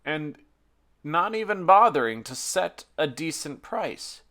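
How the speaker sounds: earnest, measured psalm reading; scripture reading. Acted. Pastor reading Psalm forty-four to the congregation, solemn and earnest. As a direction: read the lament to the congregation with weight.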